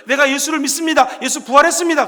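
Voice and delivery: proclaiming shout. Acted. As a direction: declare it like early believers. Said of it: "초대교인들이 외쳤던 것처럼". (힘주어 크게 외치는 신앙 고백)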